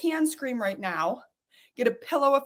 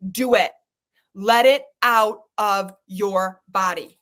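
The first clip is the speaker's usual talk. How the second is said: low firm push; 5 semitones lower, 5 dB louder than usual. Real, not acted.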